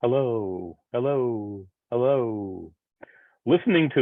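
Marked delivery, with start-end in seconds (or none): 0.0-2.7 mild echo, repeating the hello; a lightly voiced echo coming back. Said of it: "listen for the echo".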